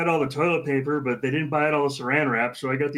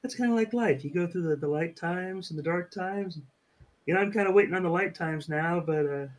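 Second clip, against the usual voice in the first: depressed painting instructor. Acted. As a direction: sigh through it like a sad painter. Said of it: "make it sound like he's horribly depressed".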